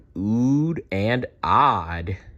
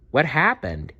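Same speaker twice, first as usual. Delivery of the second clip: put-on young dino; 6 semitones higher than usual. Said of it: "Dazzle asked".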